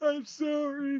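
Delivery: high-pitched crying voice, sobbing through the words. Voicing a terrified captive who starts crying and apologizes: crying while speaking. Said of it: "starts crying and says".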